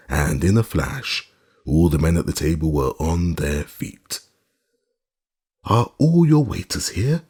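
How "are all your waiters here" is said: demanding colonel. A narrator's reading. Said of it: "demanded the colonel, in his low, harsh accent".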